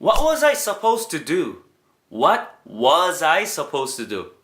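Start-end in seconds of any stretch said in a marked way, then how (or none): 0.0-1.6 slow, higher, exasperated question; exasperated demo. Shown as a demonstration. Teacher models the past-tense line, slow and exasperated. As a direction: ask it as if baffled. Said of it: "am을 was로 바꿔주면 돼요".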